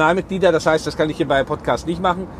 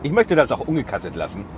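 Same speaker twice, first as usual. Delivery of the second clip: just after a sip; while sipping a drink; 4 semitones lower than usual. Real, not acted. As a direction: talk right after drinking. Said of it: "ich muss mal einen Schluck trinken".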